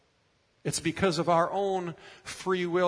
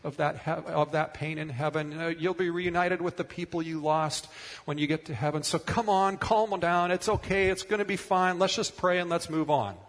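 lightly raised, brisk mock reassurance; mock dismissive comfort; 3 semitones higher than usual. Christians hurrying a grieving person along, mock breezy. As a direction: brush the grief off cheerily. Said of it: "famous for helping people get through pain like that by saying".

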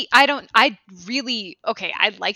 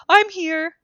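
dim himbo; 4 semitones higher than usual. Retold or imitated. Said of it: "He's too much of a himbo".

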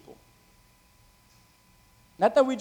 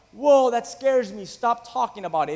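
mock scared; 5 semitones higher, 4 dB louder than usual. Preacher imitating people frightened by end-times talk, mock scared. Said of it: "many people say what".

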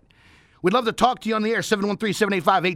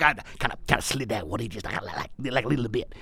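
sheepish aside; 8 semitones lower, 5 dB quieter than usual. Real, not acted.

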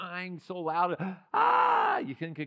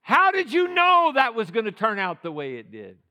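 son asking; 5 semitones higher, 10 dB louder than usual. Retold or imitated. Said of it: "he said".

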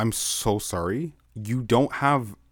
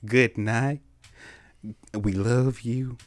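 put-on Southern accent; slower than usual. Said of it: "let's do it in a country accent".

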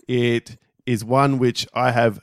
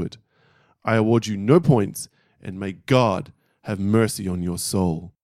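principal's verdict. Retold or imitated. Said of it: "And he says the following".

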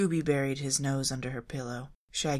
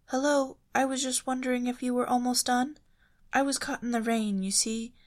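higher, polite call through a door; Daphne, genteel and raised; Daphne's voice; 10 semitones higher, 4 dB louder than usual. A narrator's reading. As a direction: politely ask the neighbour to hurry.

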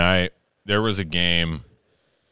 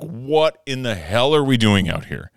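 ranting; 6 semitones higher than usual. Retold or imitated. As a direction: rant at both umpires, building up. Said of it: "I am losing my shit on the mound".

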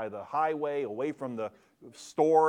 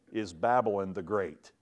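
mighty voice; 6 dB louder than usual. Shown as a demonstration. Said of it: "he called out with a mighty voice".

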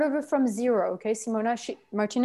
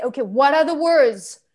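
raised, pressing question; coaching prompt; 2 semitones higher, 6 dB louder than usual. Shown as a demonstration. Trainer showing coach what to ask, pressing voice. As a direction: demand the words from the anger. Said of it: "and you can say".

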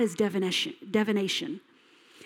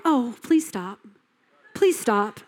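feeble plea. Acted. Mimics weak plea to intruder.

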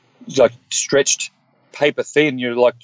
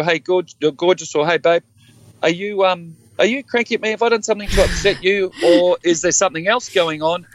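higher, lightly sweet checking-in voice; voicing his partner; 6 semitones higher than usual. Partner texting to check he's not upset, lightly higher sweet voice. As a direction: play her gently asking if he's cranky. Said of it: "send me a text message and go".

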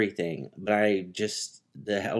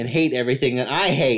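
talking between sips; words around a sip of margarita; while sipping a drink; 3 dB louder than usual. Real, not acted. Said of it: "if you can hear me drinking".

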